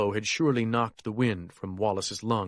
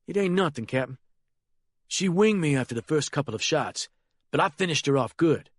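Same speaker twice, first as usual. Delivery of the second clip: put-on a lightly higher, nervous young man's voice; young Harold's voice; 4 semitones higher, faster than usual. The boy reporting the killing to the Colonel, a lightly raised nervous voice.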